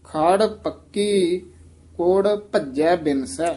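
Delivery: ਖੜ said soft and light, very slow. Shown as a demonstration. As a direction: say ਖੜ gently, drawn out slowly. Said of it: "ਖੜ ਪੋਲਾ ਹੀ ਉਚਾਰਨ ਕਰਨਾ ਹੈ". (ਖੜ ਪੋਲਾ ਬੋਲੋ)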